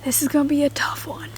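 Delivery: quiet resigned whisper. Real, not acted. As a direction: whisper it under your breath. Whispering in the woods.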